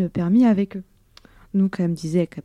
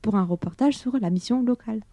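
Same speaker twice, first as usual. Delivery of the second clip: radio announcer read. Acted. Radio host station ident over music.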